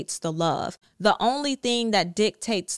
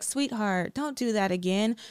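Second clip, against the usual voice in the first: lightly acted sweet, gentle scolding; a touch of coddling, imitating a too-nice parent; mock nice parent. Parent to a child who did wrong, mock nicely. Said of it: "you do not speak to them nicely".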